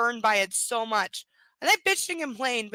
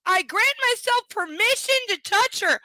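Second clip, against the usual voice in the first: higher and louder, mocking the creepy line; mocking reread; 9 semitones higher, 6 dB louder than usual. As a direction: read it back with disgust. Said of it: "and I grant myself permission".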